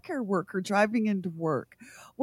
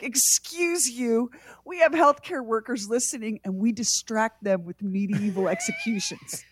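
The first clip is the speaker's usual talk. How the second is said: mock-indignant retort. Host answering a salty consultant, mock indignant. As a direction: put a salty consultant in their place. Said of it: "wants to get salty with us".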